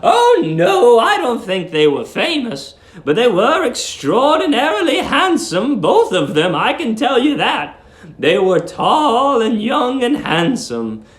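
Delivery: put-on high, sweet old landlady. A narrator's reading. Old landlady cooing at young guest Billy, high and sweet. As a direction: coo it like a doting landlady.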